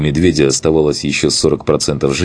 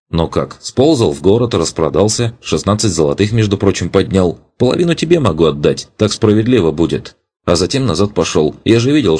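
higher, lively eager lad voice; eager young rogue; 3 semitones higher than usual. Acted. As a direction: chatter on proudly. Young elf character speaking.

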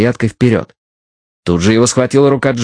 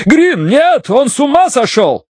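panicked cry; slower than usual. A narrator's reading. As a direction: beg him in panic. Bidwell panics, begs Green.

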